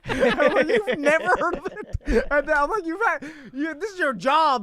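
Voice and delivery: exasperated disbelief. Retold or imitated. Exasperated retelling of the call.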